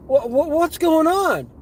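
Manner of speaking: high, slow, stammered question; bewildered clients. Retold or imitated.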